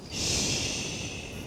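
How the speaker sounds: soft unvoiced shush; gentle hush. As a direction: hush so the lion sleeps. Lion sleeping.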